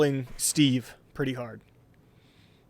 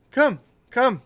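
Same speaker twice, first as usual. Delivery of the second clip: giant voice; 9 semitones higher, 6 dB louder than usual. Acted. Giant beckons party.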